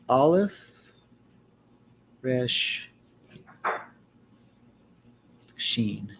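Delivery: Aleph, Resh, Sheen spelled out slowly, one by one; careful Hebrew letter names. Shown as a demonstration. Reading Hebrew letters aloud to the study group, careful. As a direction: sound out each letter name carefully. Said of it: "I just wanted to say it right".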